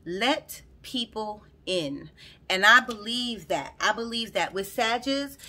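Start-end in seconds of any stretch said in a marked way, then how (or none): 0.1-2.1 slow, deliberate reading. Shown as a demonstration. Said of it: "the last thing I wrote was".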